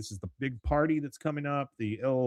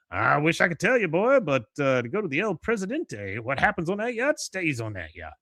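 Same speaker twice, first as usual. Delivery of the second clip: higher-pitched teasing boast; acted old colonel; 5 semitones higher than usual. Cotton tells Hank about the yacht, higher and boastful. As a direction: play a father coyly withholding the story.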